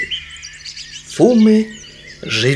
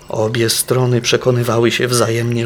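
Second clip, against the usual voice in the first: usual speaking voice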